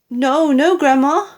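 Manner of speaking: put-on high, loud, alarmed boy; crying out. A narrator's reading. Grandson keeping cup from grandma, high alarmed cry. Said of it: "George cried".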